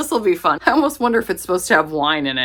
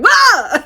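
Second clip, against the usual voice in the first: loud, much higher shocked yelp; startled shriek; 10 dB louder than usual. Retold or imitated. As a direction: yelp like you just lifted a scandalous cover. Shocked at scandalous book plate.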